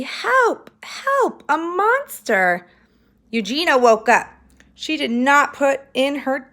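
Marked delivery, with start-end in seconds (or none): 0.0-2.7 high panicked cry for help; Baby calling out in terror about a monster; frightened cry. Acted. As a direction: scream for help, scared of the monster.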